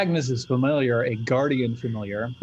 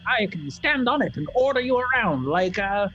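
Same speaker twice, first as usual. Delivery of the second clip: put-on high, creaky little old woman; tiny old lady voice; 12 semitones higher than usual. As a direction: play a bossy tiny crone, way up high. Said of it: "she nods and says".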